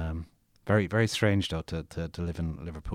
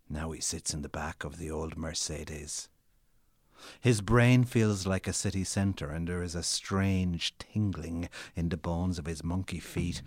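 dramatic story reading. Acted. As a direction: read your own novel like a performance. Author reads his novel aloud.

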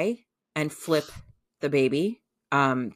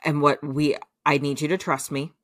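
firm reassurance. Retold or imitated. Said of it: "He goes".

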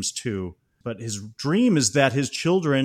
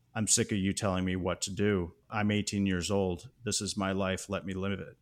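calm, softer, level retelling; 2 semitones lower, 5 dB quieter than usual. Retold or imitated. Son calmly tells father to let him live, quietly. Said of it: "and calmly says".

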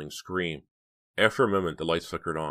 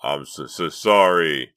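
breathless laughing; 8 dB louder, slower than usual. A narrator's reading. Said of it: "breathless from laughter".

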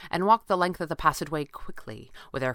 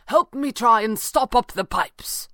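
high, loud, drawn-out call; 6 semitones higher, 5 dB louder, slower than usual. A narrator's reading. Stranger calling for help in the flooding room. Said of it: "the stranger called".

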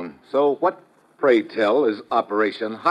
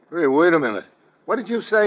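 startled; 5 semitones higher than usual. Acted. Steve startled by vacation offer.

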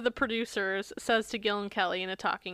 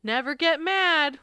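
southern drawl; 3 semitones higher, 4 dB louder, slower than usual. Retold or imitated. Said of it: "they show Jackson saying".

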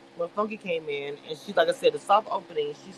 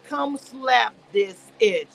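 drawn-out taunt; 3 semitones higher, 4 dB louder, much slower than usual. Retold or imitated. Retold taunt after hair flip.

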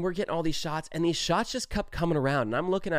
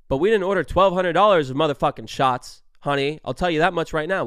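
angry; 7 dB louder than usual. Retold or imitated. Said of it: "I was just pretty pissed".

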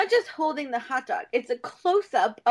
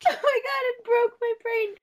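laughing; 9 semitones higher than usual. Real, not acted. Recalling the scene, laughing.

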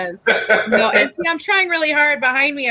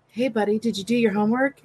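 hushed, creeping dad voice; soft sneaky parent voice; 4 semitones lower, 5 dB quieter than usual. Retold or imitated. Dad sneaking up on his kid, soft and hushed. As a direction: ease up quietly on the kid. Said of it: "you creep up on your kids".

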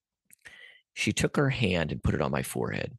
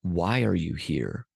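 retold slowly and deliberately; lightly voiced solemn challenge, each word drawn out; slow, probing question; slower than usual. Stranger looking right through him, slow and probing.

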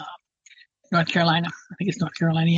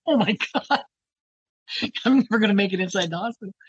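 mock panic; 3 semitones higher than usual. Panicked thought on rattling helicopter.

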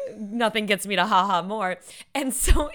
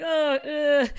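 mock martyr groan; 5 semitones higher than usual. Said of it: "martyr, just typical Jewish".

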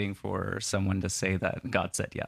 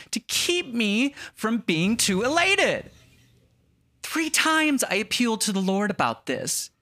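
whiny voice; 9 semitones higher than usual. Pretend. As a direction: whine it like a self-pitying martyr. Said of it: "Give it to me in a whiny voice".

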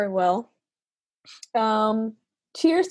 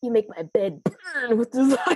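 laughing. Real, not acted. Reading while laughing.

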